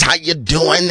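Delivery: soft, low, crooning preacher greeting; sexy preacher voice. Retold or imitated. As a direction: croon it like a smooth-talking preacher.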